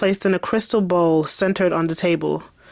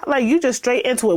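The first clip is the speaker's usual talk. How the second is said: mock outrage; 11 semitones higher than usual. Reader scolding the nosy character, high mock outrage. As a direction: call her out, high and indignant. Mocking Isabella's missing greeting.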